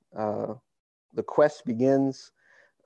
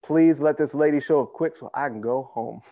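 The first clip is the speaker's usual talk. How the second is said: lazy mock prayer. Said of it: "That wasn't it".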